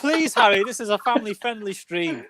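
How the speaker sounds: pleading, high-pitched telling-off; mock reprimand. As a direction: beg them to behave, playfully. Mock reprimand after rude joke.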